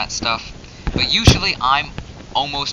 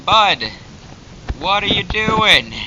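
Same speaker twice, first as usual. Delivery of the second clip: high, slow, exasperated plea to the dog; drawn-out baffled question pitched way up; 8 semitones higher, 4 dB louder, slower than usual. Real, not acted.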